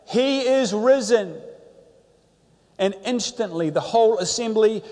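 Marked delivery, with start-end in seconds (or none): 0.1-1.4 a priest calling out slowly to the crowd; loud call. Retold or imitated. Old priest calls out the Easter greeting to the crowd, slow and loud. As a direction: call it out slow across a great hall. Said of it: "In a loud voice, he called out".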